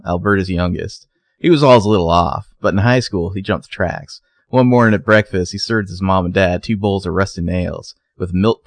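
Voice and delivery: lightly put-on Southern accent for grandma's tall tale; terrible Southern accent. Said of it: "read it in a terrible accent".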